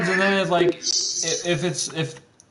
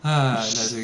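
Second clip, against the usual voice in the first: usual speaking voice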